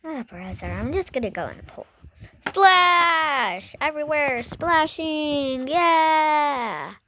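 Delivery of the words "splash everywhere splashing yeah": excited shout. Pretend. Toy jumps into pool.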